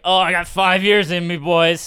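lightly voiced streamer catchphrase; a hint of an imitated streamer; Ludwig. Podcaster quoting what his friend always says, lightly imitated. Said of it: "Ludwig always says".

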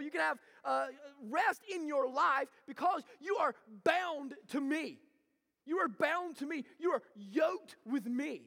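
measured sermon delivery with punched key words; emphatic preaching. Acted. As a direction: preach it with conviction, landing each phrase. Preaches with force.

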